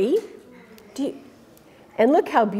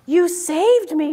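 grateful cry; 6 semitones higher than usual. Acted. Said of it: "Big Bark cried".

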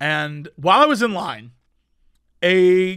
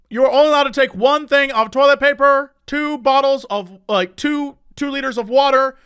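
high, louder mock announcer; imitated store announcement; 7 semitones higher, 5 dB louder than usual. Store announcing purchase limits to shoppers, mock announcer voice. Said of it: "They had announcements going that were like".

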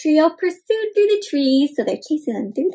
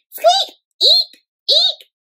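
very high, odd bird squawk; 4 dB louder, much slower than usual. Acted. Sad songbird squawking instead of singing, very high. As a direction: squawk it out like a bird who can't sing. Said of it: "an odd sounding squawk".

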